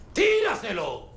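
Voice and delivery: high, drawn-out angry command; shouted order. Acted. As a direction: shout the order with rising impatience. Repite la orden gritando. (orden gritada, aguda e impaciente)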